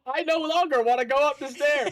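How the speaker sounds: high, panicked backpedal; mock panic. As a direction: squeal it like a sudden coward. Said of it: "I was very much expecting a".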